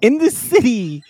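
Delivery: woo her like a self-loving city bro; Chad Charming voice. Acted. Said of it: "that's what Chad would sound like".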